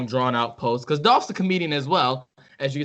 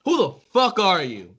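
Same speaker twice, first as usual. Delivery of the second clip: angry challenge; 4 dB louder than usual. Real, not acted. Host ranting at Tom.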